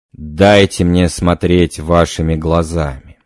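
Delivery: slow, intense trance request. Acted. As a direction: draw him into the vision, slowly. Medium enters trance.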